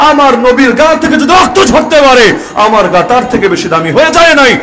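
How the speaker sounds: rising fervent sermon cadence; preacher to his audience, defiant and fervent; defiant preaching. Acted. Fiery defiant preaching build.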